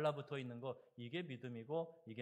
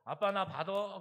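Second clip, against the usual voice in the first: put-on excited child's call; 6 semitones higher, 8 dB louder than usual. Child jumping from table.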